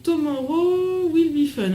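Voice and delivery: reading English with a French accent; "If you love, tomorrow will be fun" in French-accented English. Real, not acted. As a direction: reads the notebook's English motto in a French accent. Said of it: "Alors désolé pour mon accent".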